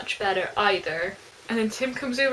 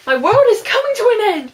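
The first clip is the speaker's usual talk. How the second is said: high, melodramatic yell; loud retort; 10 semitones higher, 11 dB louder than usual. A narrator's reading. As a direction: shout it back like the world is ending. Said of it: "she retorts loudly".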